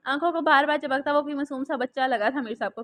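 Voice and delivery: usual speaking voice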